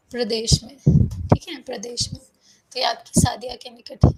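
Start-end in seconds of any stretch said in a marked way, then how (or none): 1.6-2.2 whispered repeat. Shown as a demonstration. Teacher echoes the state name to online students in a whisper. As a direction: whisper प्रदेश में under the breath. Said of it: "repeats for students".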